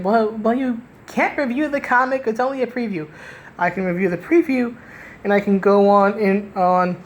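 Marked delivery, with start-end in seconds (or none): 0.0-3.1 mocking critics. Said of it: "So for anybody saying".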